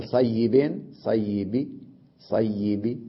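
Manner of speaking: soft, snatched ending on صيب. Shown as a demonstration. Teacher repeating the kasra example quietly. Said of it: "الروم يصح في الضمة والكسرة".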